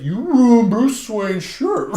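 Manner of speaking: high, slow, laughing complaint; mock outrage. Clark complaining to Deathstroke about the shirt, high and slow with laughter. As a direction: whine it through giggles.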